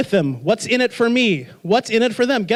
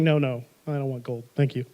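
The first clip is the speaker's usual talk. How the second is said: mock refusal; 7 semitones lower, 7 dB quieter than usual. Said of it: "And you're saying".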